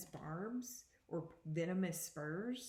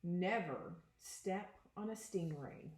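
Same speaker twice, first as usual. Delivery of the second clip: put-on expressive read-aloud to children; picture book read to students; reading aloud to a class; slower than usual. Teacher reads picture book aloud.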